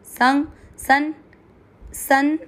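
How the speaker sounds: सं and सन from the nose, slow; nasal demo. Shown as a demonstration. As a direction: hum सन through the nose, slow. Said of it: "इसको बोलना है नाक से".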